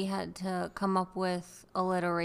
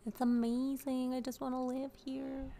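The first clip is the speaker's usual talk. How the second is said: delighted; 6 semitones higher, slower than usual. Real, not acted. Delighted about the church.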